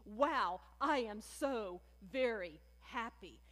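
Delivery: voicing Jesus lightly marveling at his people; preacher imagining Jesus's amazed joy; mock delighted wow. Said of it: "And by surprise, I mean".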